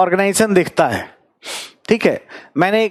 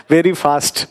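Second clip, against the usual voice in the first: laughing; 2 semitones lower, much slower than usual. Real, not acted. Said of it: "मैं थोड़ा जल्दी में बोल रहा था".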